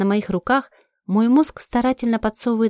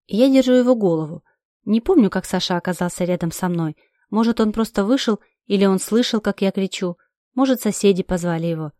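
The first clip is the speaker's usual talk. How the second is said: ordinary delivery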